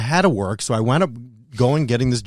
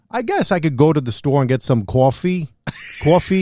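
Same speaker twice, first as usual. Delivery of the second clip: Long Island accent. Shown as a demonstration. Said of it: "can you do the accent".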